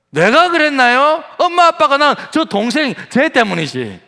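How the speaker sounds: high, indignant blame on a sibling; mock childish protest. Child voiced blaming younger sibling. (억울한 아이처럼 높게 항변하듯)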